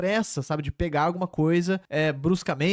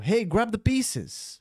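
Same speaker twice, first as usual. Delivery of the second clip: slow retold call; 4 semitones higher, much slower than usual. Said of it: "O rapper que fala isso".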